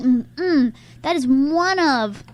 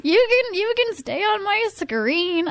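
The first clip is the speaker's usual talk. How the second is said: playful flirt; 6 semitones higher, slower than usual. Retold or imitated. Flirting with actor on screen.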